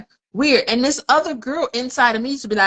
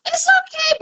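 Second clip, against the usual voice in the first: a much higher, small, mock-wistful little girl voice; sad inner girl. Recalling her lonely inner girl, voiced high and wistful. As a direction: lift way up into a wounded girl's voice. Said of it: "She wanted to be with somebody".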